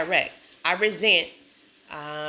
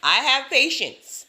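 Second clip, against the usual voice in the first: slow, higher, emphatic self-affirmation; insistent affirmation; 5 semitones higher, 4 dB louder, slower than usual. Shown as a demonstration. Woman repeating the affirmation she struggles with, insistently. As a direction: declare it slowly, pitched up, convincing yourself. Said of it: "I have to repeat over and over".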